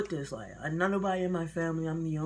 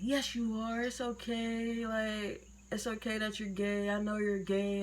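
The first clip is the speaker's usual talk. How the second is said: higher, gentle imitated reassurance; reassuring mother; 6 semitones higher than usual. Mom telling her child it's okay, imitated reassurance.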